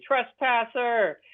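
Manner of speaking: skeleton yelling. Retold or imitated. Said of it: "he's very upset with me".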